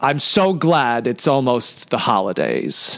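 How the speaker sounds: slow, acted-out deadpan delivery. Retelling her first line from the holiday script, imitating a deadpan delivery. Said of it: "She walks in and deadpan".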